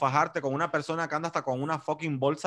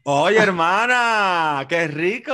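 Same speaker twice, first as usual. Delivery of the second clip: delighted; 2 semitones higher, 6 dB louder, much slower than usual. Real, not acted. Friend announces visit to her country.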